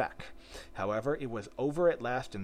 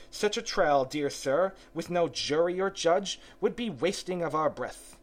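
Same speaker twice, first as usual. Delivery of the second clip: mouse voice; 6 semitones higher, 4 dB louder than usual. Acted.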